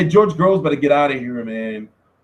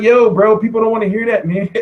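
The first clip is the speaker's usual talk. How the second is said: loud, higher, half-laughing objection; mock protest; 4 semitones higher, 5 dB louder than usual. Interviewer to rambling boxer, amused mock protest. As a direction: call him out, laughing as you go.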